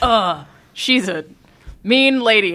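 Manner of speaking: slow, high, mocking drawl. Complaining about a game hero's lines, mocking Alan Wake impression. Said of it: "He's like".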